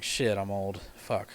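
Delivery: low, deflated self-reproach; dismayed realization. Retold or imitated. Realizing how old Shrek is, low dismay. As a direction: drop low as it sinks in.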